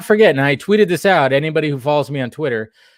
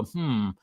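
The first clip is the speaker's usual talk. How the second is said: thoughtful hmm; 4 semitones lower, 9 dB quieter than usual. Retold or imitated. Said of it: "rub my chin and go".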